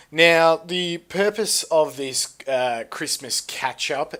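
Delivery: announcer voice. Acted. Host announcing the purpose.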